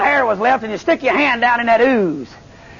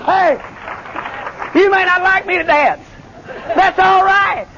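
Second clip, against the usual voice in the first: preaching at full force; 8 semitones higher than usual. Acted. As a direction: preach it out with shouting joy.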